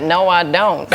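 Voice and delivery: nurse. Retold or imitated. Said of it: "she fully transforms into the people involved".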